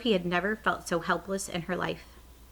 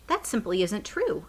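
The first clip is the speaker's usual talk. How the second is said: angry retort; 3 semitones higher than usual. Acted. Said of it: "Sophie cried angrily".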